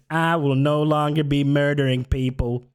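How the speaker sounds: grand put-on politician's declaration; mock proclamation. Likening a politician's pledge to a confession, declaimed. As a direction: announce it like a solemn public pledge. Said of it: "it's like saying".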